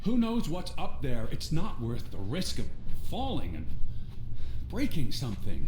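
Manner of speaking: loud, high shouting into distance; calling out. Acted. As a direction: yell after the running girl. Calling after Lissy outdoors.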